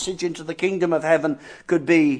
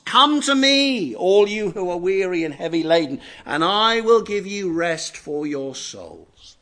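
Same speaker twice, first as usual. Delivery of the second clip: slow call, settling into reassurance; reassuring invitation; 2 semitones lower than usual. Acted. Christ answering those who can't cope, reassuring.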